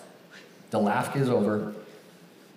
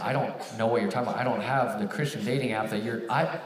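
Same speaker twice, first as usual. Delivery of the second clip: mumbling. Retold or imitated. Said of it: "starting to mumble my words like this".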